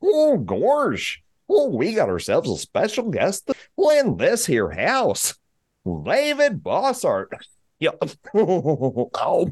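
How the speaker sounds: swooping, goofy cartoon voice. Welcoming a special guest as usual, in a Goofy voice. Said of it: "my bestest Goofy voice".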